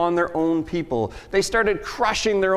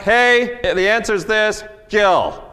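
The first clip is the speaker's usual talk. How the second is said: curt reply; 3 semitones higher, 4 dB louder, slower than usual. Retold or imitated. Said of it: "That's all I write".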